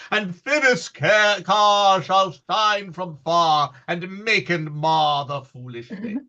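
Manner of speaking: Ercles' vein. Acted. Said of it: "this is Ercles' vein, a tyrant's vein".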